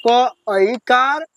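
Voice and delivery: क ऐकार stretched out very slowly; teacher models the syllable slowly; slow drill. Shown as a demonstration. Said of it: "चलिए, मेरे साथ पढ़िए".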